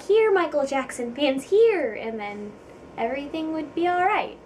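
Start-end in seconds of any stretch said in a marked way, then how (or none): 0.0-1.9 offering. Pretend. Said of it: "be like".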